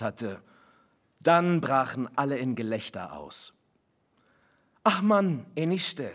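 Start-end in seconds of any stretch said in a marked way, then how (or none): 4.8-6.1 laughing. A narrator's reading. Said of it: "lachte Tante Sema".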